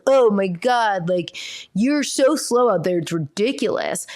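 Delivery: drawn-out exasperated put-down; imitating a scornful kid; mocking sibling. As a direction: drag the words out in mock disgust. Mimics sibling putting down another.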